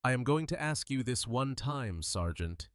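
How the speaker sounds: soft, menacing threat; menacing quiet. Acted. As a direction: lean in and threaten softly. Chief threatens leaning over counter.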